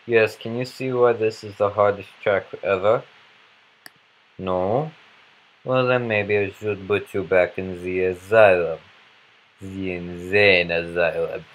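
mock French accent, loosely held; fake French accent. Player threatening the asylum, fake French accent. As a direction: put on a dubious French accent. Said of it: "I don't think that's actually a French accent".

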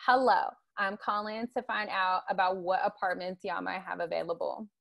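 a light African American English accent, with y'all. Shown as a demonstration. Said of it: "the Black voice is like".

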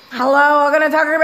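imitating an uninterested drive-thru worker; mock monotone greeting; imitated monotone. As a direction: drone it like bored staff. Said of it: "if you start talking like that".

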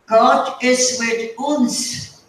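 put-on slow German-accented "God is with uns", with "uns" said the German way; the landlady's slow German-tinged "God is with uns"; German-accented quote. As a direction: quote Mrs Gruber slowly in her German accent, saying "uns" for "us". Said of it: "And then she says".

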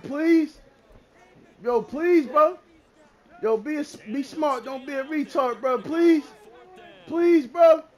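emphatic imploring; begging. Real, not acted. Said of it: "Yo, I'm begging this nigga".

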